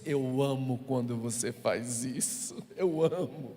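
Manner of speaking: God whispering love to the pastor; tender Holy Spirit voice. Retold or imitated. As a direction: speak it like a gentle father. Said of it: "E o Espírito Santo disse".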